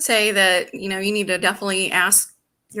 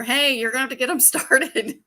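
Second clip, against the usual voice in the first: half-hearted yell, higher pitch, with a laugh; mild mock yell; 5 semitones higher, 3 dB louder than usual. Dispatcher hurrying a partner, mildly mock-yelled. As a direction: pretend to yell at a coworker, laughing. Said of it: "yelling at my partner".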